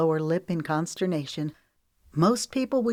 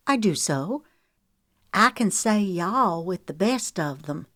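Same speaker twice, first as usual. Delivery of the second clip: put-on drawl; 2 semitones higher than usual. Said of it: "she put on a drawl".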